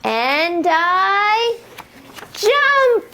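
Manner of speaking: slow, high-pitched and bright; excited jump. Acted. Teacher cueing toddlers to jump, excited high call. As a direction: stretch it out high for the kids. Story climax, kids jump.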